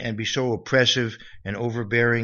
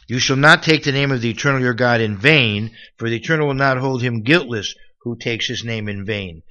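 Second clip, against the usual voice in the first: loud, emphatic commandment; scripture reading; 7 dB louder than usual. Acted. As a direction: read it out firmly as God's law. Reads scripture aloud.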